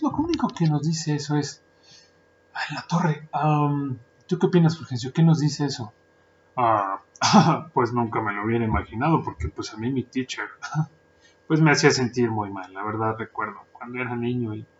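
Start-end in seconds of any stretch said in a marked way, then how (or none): 2.5-5.9 mocking a smug listener. Mock pompous listener quote. 6.6-12.7 mock student voice.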